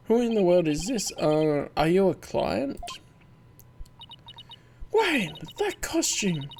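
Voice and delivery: put-on high, eager girl voice; Athena puzzling out a new client, eager and bright; high young girl. A high, eager girl voice.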